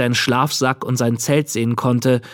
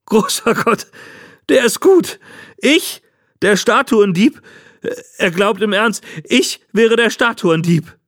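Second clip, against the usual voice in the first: put-on high, hilarity-filled old man's voice; laughing disbelief; 9 semitones higher than usual. A narrator's reading. Old man mocks the boy's accusation, bursting with laughter. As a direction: gasp it out in incredulous amusement, very high. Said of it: "brach er in Gelächter aus".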